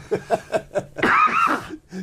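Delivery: high, loud burst of laughter; shrieking laugh. Real, not acted. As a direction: laugh out shrilly.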